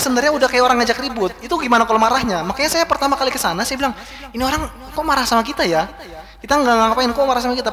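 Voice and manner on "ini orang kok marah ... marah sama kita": higher-pitched, mildly indignant questioning; puzzled protest. Retold or imitated. Speaker retells his first encounter with Turks, puzzled protest. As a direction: act out a bewildered complaint.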